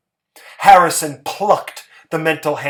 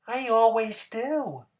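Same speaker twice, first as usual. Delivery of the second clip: simple Hazel; 7 semitones higher, 4 dB quieter than usual. A narrator's reading. Hazel voiced by narrator.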